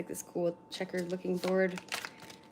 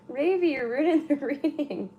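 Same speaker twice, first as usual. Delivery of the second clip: playful pet scolding; 6 semitones higher, 3 dB louder than usual. Real, not acted.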